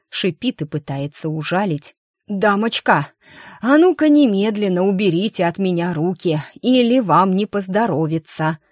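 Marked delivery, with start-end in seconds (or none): 2.3-8.6 hoarse, choked warning. Acted. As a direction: rasp it out through a squeezed throat. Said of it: "предупредила я певичку осипшим голосом".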